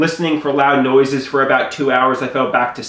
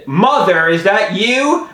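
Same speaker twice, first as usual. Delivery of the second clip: startled call; 5 semitones higher, slower than usual. Retold or imitated. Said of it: "So I exclaimed".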